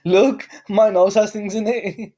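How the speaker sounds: put-on high, slow silly kid voice; mock child voice. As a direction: play the snotty little kid. Mocking childhood quote of S0.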